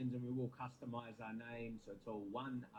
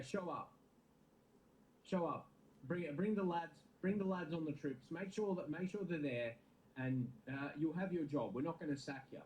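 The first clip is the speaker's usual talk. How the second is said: put-on casual Australian accent as the club board; mock Australian board official reassuring the manager, mate; 2 semitones higher than usual. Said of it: "the talk with the manager ... in an Australian accent".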